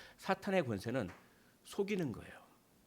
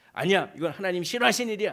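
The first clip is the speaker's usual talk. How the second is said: loud, higher firm no; loud refusal; 6 semitones higher, 10 dB louder than usual. Acted. Believer shouting back at Satan, loud and high. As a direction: push the tempter away loudly.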